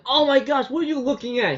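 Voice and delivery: high, put-on voice of an embarrassed girl; flustered girl. Girl catches him looking, high flustered mock voice. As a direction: squeak it out, caught half-dressed. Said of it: "she goes like".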